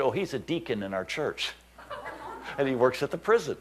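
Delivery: quietly asking the pastor beside you; hushed aside. Retold or imitated. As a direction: lean over and ask it under the music. Pastor's hushed reply during singing.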